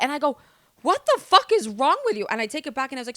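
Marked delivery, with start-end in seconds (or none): 0.8-2.3 mock angry outburst. Retold fight with man on train.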